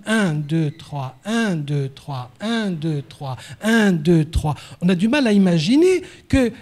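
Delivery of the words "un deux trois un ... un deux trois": repetitive, metronome-like count in threes; monotonous counting. Shown as a demonstration. Teacher showing how monotonous bar beats are, monotonous counting. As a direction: count out the beats like a dull, endless drill. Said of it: "C'est extrêmement monotone".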